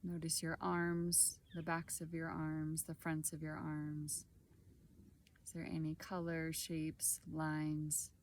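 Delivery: calm meditation guide, long pauses between short phrases; guided body scan. Acted. Guide leading listeners through a body scan, calm and unhurried. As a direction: guide gently through the body, leaving space after each phrase.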